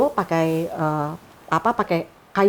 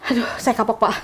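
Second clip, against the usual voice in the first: put-on remorse; 3 semitones higher than usual. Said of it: "acting langsung".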